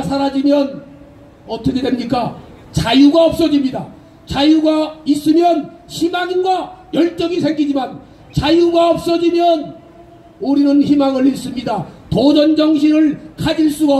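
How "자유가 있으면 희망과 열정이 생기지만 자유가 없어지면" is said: shouting. Real, not acted. Rally speech about freedom.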